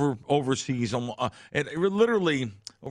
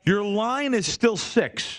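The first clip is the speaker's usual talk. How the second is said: higher, slow, drawn-out scolding; slow exasperated repeat; 7 semitones higher, much slower than usual. Retold or imitated. Repeating the line number to a complaining bettor, slow and exasperated. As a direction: spell it out to a slow customer. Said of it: "I wanted to scream at this guy".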